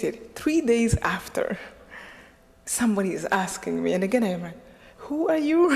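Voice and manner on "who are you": high-pitched, incredulous question; mock-bewildered, voice jumping up; retold astonishment. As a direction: act out being stunned by a stranger.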